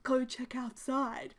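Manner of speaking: slow, unvoiced teasing whisper; a grandma hiding a prank; sly whisper. Grandma giggling conspiratorially.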